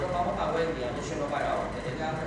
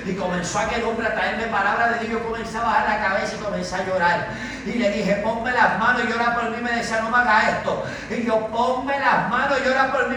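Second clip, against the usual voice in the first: urgent preacher's storytelling, building louder; impassioned testimony preaching; 5 semitones higher, 8 dB louder than usual. Acted. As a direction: drive the testimony on with mounting fervour. Preaches the testimony with rising force. (testimonio predicado con fervor creciente)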